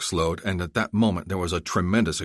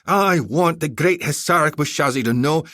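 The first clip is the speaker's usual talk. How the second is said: scornful taunt; 11 semitones higher, 5 dB louder than usual. Acted. Commander taunting the general.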